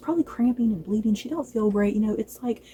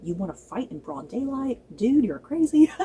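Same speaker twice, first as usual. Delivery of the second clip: incredulous. Retold or imitated. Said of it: "Gwaine Hightower still just kind of wondering".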